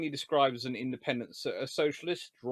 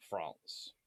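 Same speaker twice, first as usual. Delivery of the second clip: whisper; 12 semitones lower, 14 dB quieter than usual. Real, not acted. Telling the audience about French presidents, whispered. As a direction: whisper the word France.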